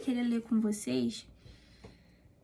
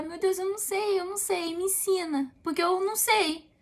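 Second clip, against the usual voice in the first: put-on higher, pleading like a small child asking its father; humble child's prayer; 5 semitones higher than usual. Believer praying to God as a needy child, higher and pleading. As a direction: beg God to teach you, like a child.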